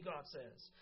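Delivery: earnest preaching to the congregation; sermon delivery. Real, not acted. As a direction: preach it with conviction.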